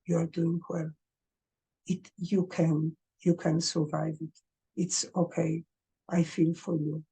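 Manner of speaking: pat your face and reassure yourself; gentle self-reassurance. Shown as a demonstration. Speaking kindly to oneself with a pat, tender. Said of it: "and say".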